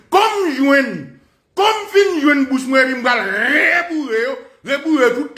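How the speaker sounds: drawn-out, high-pitched yell; ranting shout. Real, not acted. Speaker ranting about what happens on finding it, drawn-out shout. Heated rant, calling out.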